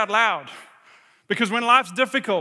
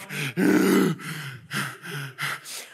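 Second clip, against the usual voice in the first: mock winded gasps, low; shaken gasping; 7 semitones lower than usual. Queasy rider pulling into the station, shaken gasps. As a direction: act out catching breath after a sickening ride. Pulling in, sick after the ride.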